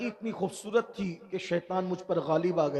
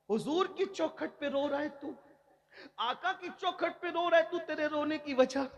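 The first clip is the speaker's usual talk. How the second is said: high-pitched, softer questioning; raised-voice questioning; 8 semitones higher, 5 dB quieter than usual. Retold or imitated. Umar asks a man weeping at the Prophet's door, high-pitched questioning. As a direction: ask it high and sustained, without shouting.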